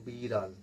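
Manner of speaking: ড় in বিড়াল with the tongue curled back. Shown as a demonstration. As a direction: say বিড়াল, tongue touching the palate and rolling back. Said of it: "জিভটা কেমন গুটিয়ে চলে আসছে". (বিড়াল-এর ড় জিভ গুটিয়ে উচ্চারণ)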